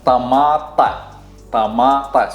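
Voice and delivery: Tamata with a flat open a; Iraqi Arabic pronunciation. Shown as a demonstration. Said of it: "Brian is gonna pronounce everything so you guys can practice".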